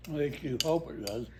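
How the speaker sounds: talking while chewing; mouth full. Real, not acted. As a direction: say it through a mouthful of food. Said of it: "don't talk with your mouth so full".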